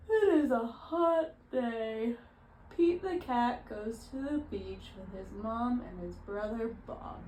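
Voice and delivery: drawn-out, weary reading voice; tired. Shown as a demonstration. Demonstrating to a reader how to read as if tired, tired. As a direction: read it slowly, like you're worn out. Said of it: "read as if you are tired".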